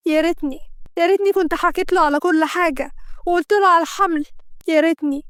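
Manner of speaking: tearful despair. Acted. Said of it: "وهي منهارة من العياط".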